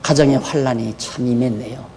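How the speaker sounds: mock pastor visiting. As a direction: tut sympathetically at the bedside. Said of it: "병원에 누워 있으면".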